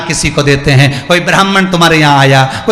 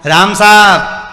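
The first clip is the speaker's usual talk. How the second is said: slow greeting; 3 semitones higher, 3 dB louder, much slower than usual. Shown as a demonstration. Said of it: "जरा बोल के देखना".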